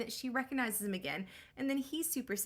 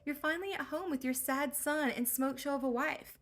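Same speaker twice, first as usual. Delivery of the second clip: put-on valley girl Athena; 4 semitones higher than usual. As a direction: play a bored teen goddess.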